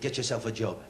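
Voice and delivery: low, gruff order from dad; stern dad. Retold or imitated. Father orders his lazy son, low and gruff. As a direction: bark it like a fed-up father.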